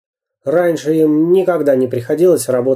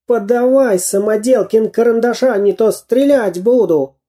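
higher, menacing demand; threatening spy; 8 semitones higher than usual. A narrator's reading. Spy Dyrka threatens Samodelkin with a pistol, menacing. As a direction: demand it at gunpoint.

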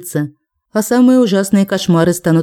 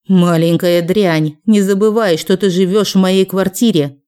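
raised angry voice. Acted. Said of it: "Снова повысила голос родительница".

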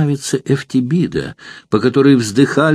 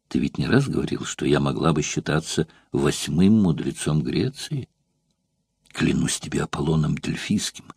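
soft, intimate pleading, lower and softer; a seductress wheedling a secret out; coaxing courtesan; 4 semitones lower, 4 dB quieter than usual. Acted. Eftibida sweet-talking Metrobius for his secret, soft and coaxing.

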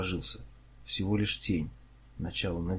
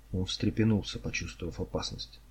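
ordinary delivery

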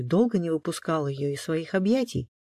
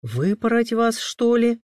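musing, raised-pitch threat; pensive; 8 semitones higher, 7 dB louder, slower than usual. A narrator's reading. Papa considers how to punish the twins, pensive. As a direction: muse aloud over the punishment. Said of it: "задумчиво произнёс папа".

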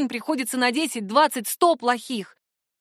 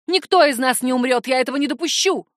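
angry mother; 2 semitones higher, 5 dB louder than usual. Acted. Mother furious at daughter.

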